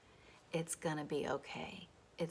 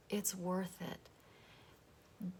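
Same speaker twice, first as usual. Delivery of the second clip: said very slowly and much softer; soft, slow repeat; 6 dB quieter, much slower than usual. Shown as a demonstration. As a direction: let it sink in, almost under the breath. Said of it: "repeated for effect".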